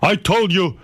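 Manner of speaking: high, slow mock of an upset father with a laugh; laughing while imitating the father's scolding. Son mocks his father scolding the mother, high and laughing. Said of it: "my father starts getting upset".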